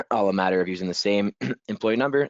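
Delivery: losing voice, clearing throat between words; rough, strained throat; hoarse voice. Real, not acted. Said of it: "losing my voice".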